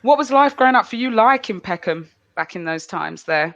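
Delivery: usual speaking voice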